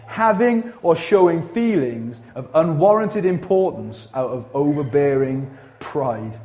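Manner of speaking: slow, spaced-out definition with weight on each phrase; deliberate repeat. Shown as a demonstration. Preacher repeating arrogance definition to congregation, slow and deliberate. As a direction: read it out slowly, pausing before the final word. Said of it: "Let me say that again".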